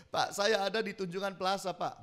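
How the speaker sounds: mild mock-tearful voice; a touch of retold weeping; imitated crying caller. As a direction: plead as a distressed caller, lightly acted.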